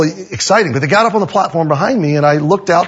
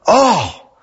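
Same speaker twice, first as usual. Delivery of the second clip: higher-pitched "oh" of relief; relieved sigh; 7 semitones higher than usual. Retold or imitated. Church member hearing it is cheaper, relieved. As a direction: sigh as the worry lifts. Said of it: "relieving sighs".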